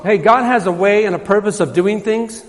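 usual speaking voice

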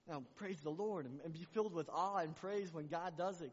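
fervent sermon close; preaching at full force. Acted. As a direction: stir the church to praise. Closing exhortation.

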